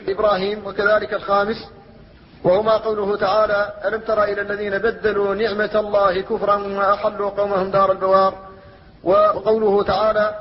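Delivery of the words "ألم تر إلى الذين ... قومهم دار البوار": measured recitation with elongated vowels; Quran recitation. Acted. Teacher quoting a verse to students, measured recitation.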